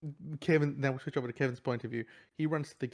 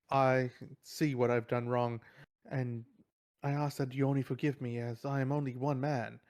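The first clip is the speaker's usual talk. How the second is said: mock courtroom plea, hammed up lightly; lightly voiced cheesy lawyer pleading; cheesy lawyer delivery. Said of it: "obnoxiously, um, over the top, cheesy, sort of, you know, lawyer delivery".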